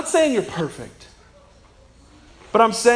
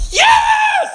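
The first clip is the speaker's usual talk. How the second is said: cheering parent; 11 semitones higher than usual. Retold or imitated. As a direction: cheer the toddler on, fading down. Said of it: "the parents were like".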